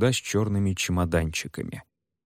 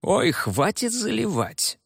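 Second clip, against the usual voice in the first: scoffing officer; 13 semitones higher, slower than usual. Acted. Officer mocks Ebel's story.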